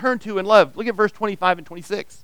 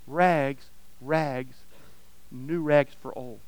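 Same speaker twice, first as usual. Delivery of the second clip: soft, hushed echo of the street cry; quiet echo; 3 semitones lower, 7 dB quieter, slower than usual. Acted. Narrator softly echoes the sobbing ragman's call, hushed. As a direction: let the call fade to a murmur.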